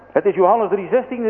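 high, eager announcement; calling out. A narrator's reading. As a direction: call out the good news. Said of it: "riep de kleine arme jongen".

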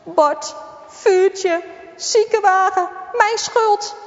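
sobbing. Acted. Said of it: "huilt met snikkende uithalen".

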